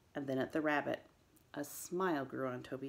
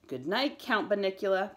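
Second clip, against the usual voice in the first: mock Transylvanian accent, raised and louder; sarcastic Transylvanian accent; 6 semitones higher, 7 dB louder than usual. A narrator's reading. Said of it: "Pete said sarcastically".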